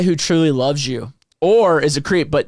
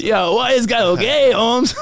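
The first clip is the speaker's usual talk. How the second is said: higher, hammed-up Mexican accent; 9 semitones higher, slower than usual. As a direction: kid talking in a Mexican accent. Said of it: "a Mexican accent".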